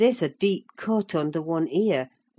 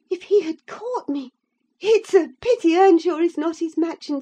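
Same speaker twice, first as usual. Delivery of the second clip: put-on high, loud young lady rushing her complaints; agitated young woman; 11 semitones higher, 6 dB louder than usual. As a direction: pour it out fast, fear and scorn rising. Isabella's heated tirade.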